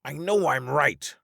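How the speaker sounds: high, insistent plea; pleading. Acted. Russell begging the others to believe him, high plea. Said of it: "Russell pleaded".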